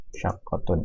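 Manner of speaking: "Syaqqatun" said again softly, falling; quiet falling echo of "Syaqqatun"; soft repeat. Shown as a demonstration. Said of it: "teacher repeats the word softly".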